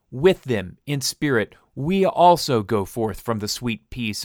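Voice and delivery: lightly voiced stern messenger of God, emphatic; solemn prophet stranger. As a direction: deliver a grave warning to the congregation.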